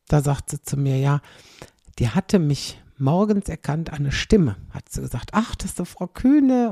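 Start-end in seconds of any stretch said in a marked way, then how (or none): 5.3-6.7 surprised recognition. Retold or imitated. Receptionist recognizes her voice.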